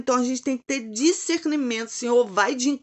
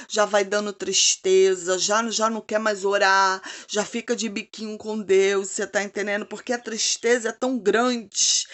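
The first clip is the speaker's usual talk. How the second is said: normal talking voice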